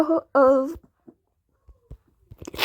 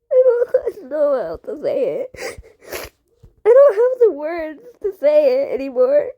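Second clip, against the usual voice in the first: crying. Real, not acted. Kid unable to explain, crying to camera. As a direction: choke it out through tears. Struggling for words in tears.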